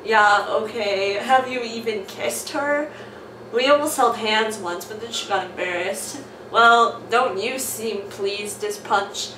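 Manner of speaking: loud, hammed-up character voices; switching accents clumsily. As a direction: swap voices for each character. Reading comic aloud with character voices.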